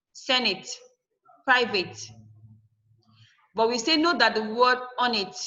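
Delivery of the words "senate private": Senate, private, stressed on the first syllable; SEN-ate, PRI-vate as separate examples. Shown as a demonstration. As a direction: hit the start of Senate and private. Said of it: "they are stressed at the first syllable".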